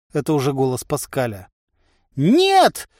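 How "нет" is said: high, loud wail of refusal; frantic high-pitched shout; crying out. A narrator's reading. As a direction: cry out in alarm. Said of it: "возопил Харчик".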